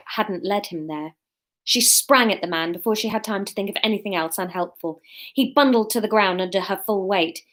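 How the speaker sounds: measured audiobook-style reading; story narration. A narrator's reading. Reading their chapter to listeners, story narration. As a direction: read the action out as a storyteller. Reads her chapter aloud.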